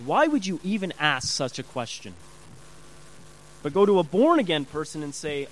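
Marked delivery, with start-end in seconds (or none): 0.0-2.1 mildly indignant acted question; bugged. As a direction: play someone a touch put out. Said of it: "very, very bugged".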